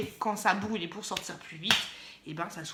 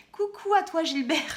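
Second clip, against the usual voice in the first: coucou; 5 semitones higher than usual. Pretend. Calls out to a colleague.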